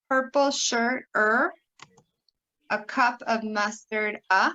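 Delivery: slow key words, each followed by its lone vowel; deliberate teacher's pronunciation model; colour vowel drill. Shown as a demonstration. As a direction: stretch the word pair, then isolate the sound. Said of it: "let's keep going around".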